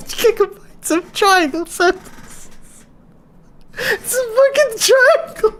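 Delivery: very high, squeaky laughing fit; real uncontrollable laughing, voice shooting way up; helpless laughter. Real, not acted. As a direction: squeeze the words out while losing it. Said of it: "I just lost it".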